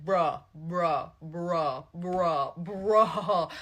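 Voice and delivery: mock frustrated huffing; mounting frustration. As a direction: imitate someone grunting at a stuck zip, building. Imitates man struggling with jacket.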